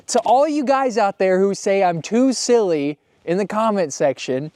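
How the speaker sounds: loud, high, emphatic rant; talking loudly. Real, not acted. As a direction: talk loudly, half yelling. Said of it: "I'm not yelling at you".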